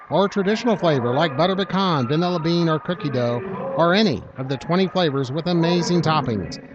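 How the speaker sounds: upbeat sponsor read. Acted. Announcer to listeners pitching the ice cream shop, ad read. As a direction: sell the ice cream shop like a local radio spot.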